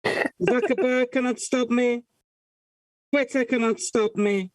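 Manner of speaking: talking into a mug; muffled, echoing mug voice; into a cup. Pretend. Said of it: "I'm leaning over, talking into a mug".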